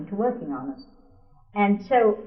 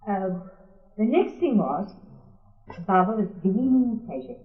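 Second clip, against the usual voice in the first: ordinary delivery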